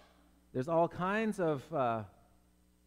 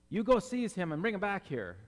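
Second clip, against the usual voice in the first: raised, mock-bossy order; acted command; 4 semitones higher than usual. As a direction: play a Pharisee sending servants off. Pharisees ordering their servants, acted.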